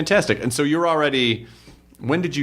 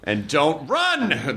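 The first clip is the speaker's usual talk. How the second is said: slow, drawn-out scolding; mock scolding teacher; 3 semitones higher, much slower than usual. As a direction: scold him like a strict teacher.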